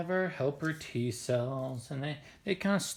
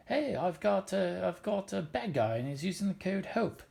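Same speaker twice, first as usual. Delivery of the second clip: macrophage calling out; 5 semitones higher than usual. Acted. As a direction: call a friend over in a higher voice. Macrophage calls helper T cell over.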